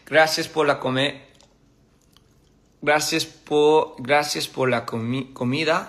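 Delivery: sounding out "gracias por la comida" haltingly; halting learner's Spanish; practicing Spanish. Shown as a demonstration. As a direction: stumble through "gracias por la comida" syllable by syllable. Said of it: "in Espanol is".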